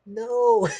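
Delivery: sudden high cry of protest; loud dismayed no. Retold or imitated. Reliving the scene, yelling no at Vision's death. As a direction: cry out no at the screen.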